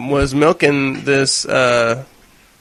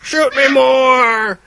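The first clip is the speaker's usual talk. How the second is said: high, drawn-out creature plea; slow, high monster cry; begging locusts; 9 semitones higher, much slower than usual. Acted. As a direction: beg eagerly in a high put-on voice. Voicing locusts begging to be shot.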